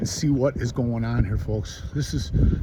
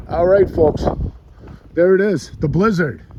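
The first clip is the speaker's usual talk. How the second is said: loud and higher, calling out; shouting over wind; 4 semitones higher, 5 dB louder than usual. Real, not acted. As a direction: raise your voice over the storm. Reporting outdoors in a blizzard.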